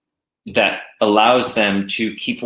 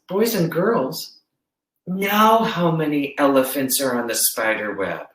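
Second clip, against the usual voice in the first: teacher asking class; 3 semitones higher than usual. Retold or imitated. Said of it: "I would say to the class".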